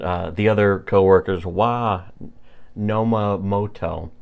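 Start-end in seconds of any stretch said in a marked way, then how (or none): 1.5-4.1 Nomomoto drawn out slowly, falling at the end; spelling out an odd name slowly; slow careful name. Shown as a demonstration. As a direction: sound out Nomomoto syllable by syllable. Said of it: "that's a terrible name".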